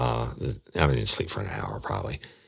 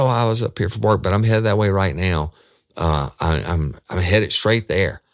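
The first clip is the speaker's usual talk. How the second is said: higher, louder, hyped-up man; amped up; 6 semitones higher, 5 dB louder than usual. Retold or imitated. Man leaving Walmart brushing her off, amped up. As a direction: rattle it off all wound up. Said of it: "really amped up".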